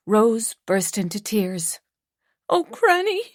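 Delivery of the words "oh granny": higher, tearful cry of Granny; sobbing. A narrator's reading. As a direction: break down to grandmother. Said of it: "she sobbed".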